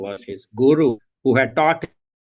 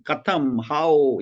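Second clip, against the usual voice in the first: crying tone; 3 semitones higher, much slower than usual. Retold or imitated. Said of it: "that is his exact tone".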